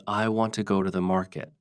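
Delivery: "want" and "market" hit, the rest quick; stress on want and market. Shown as a demonstration. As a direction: punch "want" and "market", glide over the rest. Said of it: "Words like want and market are stronger".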